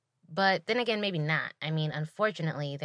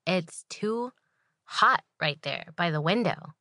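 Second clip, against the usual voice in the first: complaining customer; 4 dB louder than usual. Retold or imitated. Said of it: "she's like".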